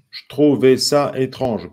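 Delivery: slow, measured syllables; syllables for counting. Shown as a demonstration. Teacher asking how many syllables, slow and separated. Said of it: "Combien de syllabes?".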